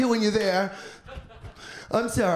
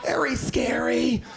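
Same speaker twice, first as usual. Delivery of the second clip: hushed, slow and spooky; breathy scared whisper; slower than usual. Acted. Comic telling of the airport chase, slow whisper. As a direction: whisper it slowly, all air.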